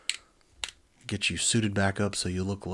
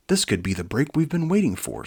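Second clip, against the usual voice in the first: eager leader; 7 semitones higher, 6 dB louder than usual. Acted. Herc eager.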